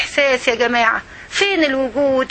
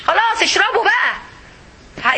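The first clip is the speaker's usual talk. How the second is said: sarcastic slow rebuke; 6 semitones higher, much slower than usual. Acted. Sarcastic rebuke of partying community.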